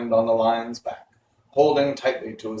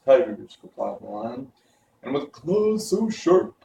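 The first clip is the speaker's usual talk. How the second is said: frightened lion; 3 semitones higher than usual. A narrator's reading. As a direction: describe the beasts with dread. Lion describes the beasts.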